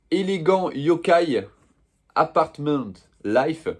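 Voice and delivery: careful French-accented attempt at English; English title in a slow, separated French speaker's English accent. Real, not acted. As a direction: read it slowly in a would-be English accent. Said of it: "Mon accent anglais est incroyable".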